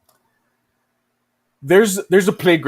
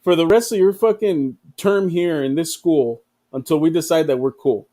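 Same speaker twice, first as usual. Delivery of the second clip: hammed-up bully. USA stand demands a popcorn fee, mock bully. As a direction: play the smug schoolyard bully. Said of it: "He's like".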